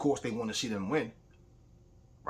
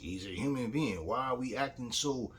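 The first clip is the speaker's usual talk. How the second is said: ordinary talk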